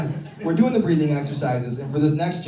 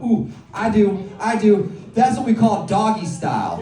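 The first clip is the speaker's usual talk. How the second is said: eager self-quote; 3 semitones higher than usual. Retold or imitated. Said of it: "And I got excited".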